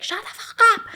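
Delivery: high, loud mock yell of a dad. Dad yelling at kid in the car, loud and high. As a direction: snap it out, pitch way up. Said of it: "they'd just be like".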